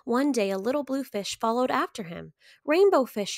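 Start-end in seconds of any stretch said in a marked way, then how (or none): 2.7-3.4 calling out. A narrator's reading. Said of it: "he called".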